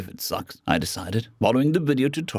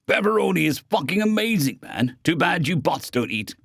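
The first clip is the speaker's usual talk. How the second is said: delighted eater; 7 semitones higher than usual. Acted. Eating pizza happily.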